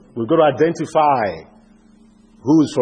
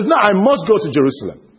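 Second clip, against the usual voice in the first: raised, high-pitched firm refusal; resolute conviction; 5 semitones higher, 4 dB louder than usual. Acted. Paul refuses his pleading friends, resolute conviction. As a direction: declare it forcefully, pitch up. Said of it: "So Paul had this conviction".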